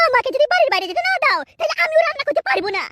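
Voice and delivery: understated angry ultimatum; a touch of defiant temper; mild acted anger. Wife refusing husband to cook, mildly angry. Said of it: "তুমি অত রেগে গেছো কেন".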